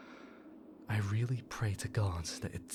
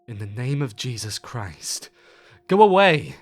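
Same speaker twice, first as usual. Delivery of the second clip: much higher, much louder shout; 4 semitones higher, 16 dB louder than usual. Retold or imitated. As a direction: bellow it at the woods to drive it off. Cousin yells at thing outside.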